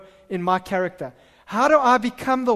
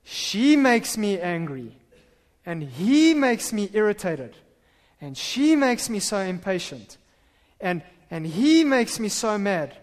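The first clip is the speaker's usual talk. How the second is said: blaming complaint; slower than usual. Retold or imitated. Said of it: "we want to think".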